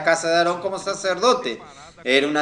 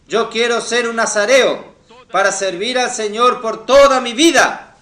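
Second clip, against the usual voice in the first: raised, louder preaching declaration; fervent vow; 4 semitones higher, 5 dB louder than usual. Acted. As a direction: build to a high, loud peak on the last words. Voices a fervent vow to consecrate. (voto proclamado con fervor)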